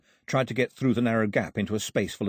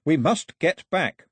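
higher, slow, emphatic yell; urgent yell; 6 semitones higher, 4 dB louder, slower than usual. A narrator's reading. Mao urging Daphne to leave, urgent yell. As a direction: yell it firmly across the dark. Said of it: "and yelled".

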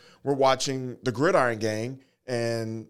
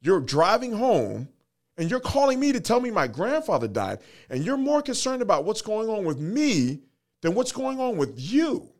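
much higher and slow, pressing the point hard; son's confrontation; 9 semitones higher than usual. Retold or imitated. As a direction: voice the son urging dad, drawn out and high. Son confronts dad on Zoom.

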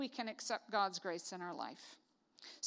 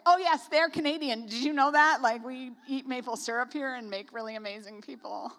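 proud Canadian; 6 dB louder than usual. Retold or imitated. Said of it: "we're so funny about it".

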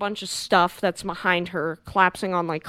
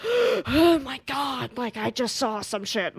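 shaken whisper; 4 semitones higher, slower than usual. Retold or imitated. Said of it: "she's just like".

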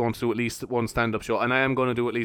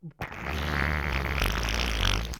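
imitated fart noise; 11 semitones lower, 6 dB quieter than usual. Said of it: "one of the lads just went like".

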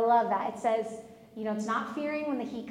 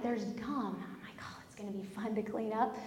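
quiet, low muttered self-talk; dismayed aside; 3 semitones lower, 9 dB quieter than usual. Retold or imitated. Wife finds gum on the borrowed Jeep, dismayed muttering. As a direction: grumble it softly to yourself.

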